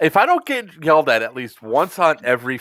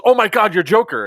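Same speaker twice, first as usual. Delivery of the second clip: higher, louder excited gasp of recognition; starstruck recognition; 8 semitones higher, 4 dB louder than usual. Retold or imitated. Woman spotting Joker beside the admin, starstruck. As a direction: imitate a fan suddenly recognizing someone famous.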